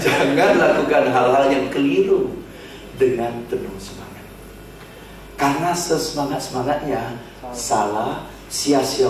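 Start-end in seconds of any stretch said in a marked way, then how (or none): 0.0-4.2 said through a laugh, emphatic; repeated with a chuckle; laughing emphasis. Shown as a demonstration. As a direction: repeat the key point while laughing. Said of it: "ini adalah yang terpenting".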